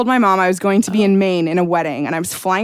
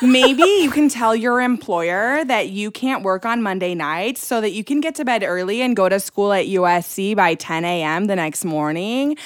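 mom's voicemail. Retold or imitated. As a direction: act out mom's measured suggestions. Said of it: "Anyways, I'll repeat it".

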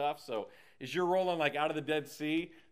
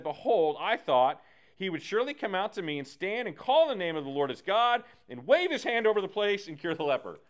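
furious Naaman; 4 semitones higher, 6 dB louder than usual. Acted. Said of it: "Naaman is furious".

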